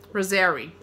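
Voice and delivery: rosary said as ROH-zeh-ree; rosary with a long O start; rosary, corrected. Shown as a demonstration. Teacher corrects herself on a list word, rosary. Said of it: "ro-, sorry".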